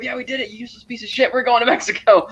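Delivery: high, lightly acted retold cheer; mild imitation of gleeful gloating; happy cheering. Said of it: "Seth is so happy, cheering".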